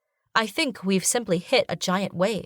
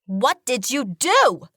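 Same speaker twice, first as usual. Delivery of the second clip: higher, slow squeaky panic; high-pitched panicked genie; 5 semitones higher, 4 dB louder, slower than usual. A narrator's reading. Genie asking the heroine in panic, squeaky. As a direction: squeak it in alarm. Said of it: "terrified, high-pitched voice".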